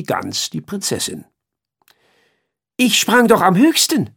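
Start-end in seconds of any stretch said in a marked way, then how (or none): 2.8-4.1 high, louder indignant flea voice. Acted. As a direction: squeak it out like a proud little flea. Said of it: "sagte der Floh".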